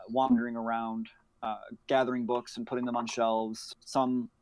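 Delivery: normal talking voice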